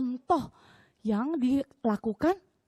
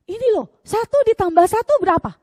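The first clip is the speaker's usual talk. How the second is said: teacher quizzing; 8 semitones higher, 10 dB louder than usual. Retold or imitated.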